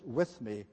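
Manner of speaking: "with" said slowly and firmly, alone; stress on with. Shown as a demonstration. Preacher singling out "with" in the verse. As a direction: isolate "with me" and weigh "with". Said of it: "Notice the emphasis here on being with him".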